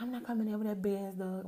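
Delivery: imitating a guy balking at the big dog; 1 mock dismissive guy. Guy refusing to enter, aunt's dog there, mock loud. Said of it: "He was like".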